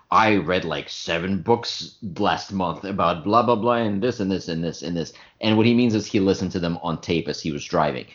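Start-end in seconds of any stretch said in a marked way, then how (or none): 0.1-5.1 pompous intellectual. Retold or imitated. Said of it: "likes to sound very intellectual".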